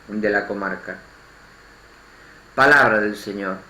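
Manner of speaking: measured liturgical reading with pauses; solemn lector at Mass; scripture reading. Acted. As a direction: proclaim the verses phrase by phrase to a congregation. Liturgical Gospel reading aloud.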